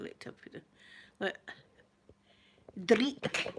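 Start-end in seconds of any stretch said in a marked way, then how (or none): 2.9-3.5 Dreek with a rolled Scottish r and long ee; Scottish word. Shown as a demonstration. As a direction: say Dreek the Scots way. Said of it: "that's a good Scottish word".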